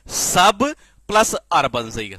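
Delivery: each part spaced apart slowly, सब, प्लस, अर्बन; slow syllable by syllable. Shown as a demonstration. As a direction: break सब प्लस अर्बन into slow parts for the class. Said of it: "किससे बनेगा?".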